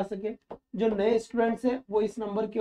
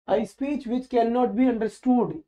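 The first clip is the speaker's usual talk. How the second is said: each word spelled out very slowly; slow dictation; much slower than usual. Shown as a demonstration. Teacher dictating a definition to students, very slow and deliberate. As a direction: read it slowly so students can write it down.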